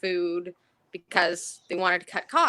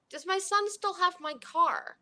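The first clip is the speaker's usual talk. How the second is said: put-on confused old man; 10 semitones higher, slower than usual. Confused elderly resident.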